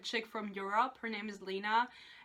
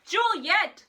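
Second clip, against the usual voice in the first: loud, higher, hammed-up cry of the name; mock passionate cry; 8 semitones higher, 8 dB louder than usual. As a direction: cry out Juliet like a swooning lover. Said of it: "He says".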